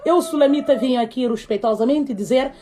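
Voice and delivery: mock-formal Sulamita lodging a complaint; lightly voiced formal complaint. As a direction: announce it respectfully, tongue in cheek.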